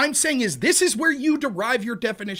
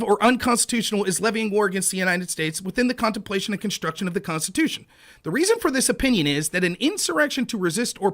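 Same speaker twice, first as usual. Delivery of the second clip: reading aloud. Acted. Reads court case aloud.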